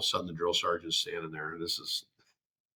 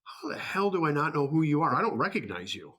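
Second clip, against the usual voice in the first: drill sergeant yell; 6 semitones higher than usual. Retold or imitated. Drill sergeant yelling at recruit.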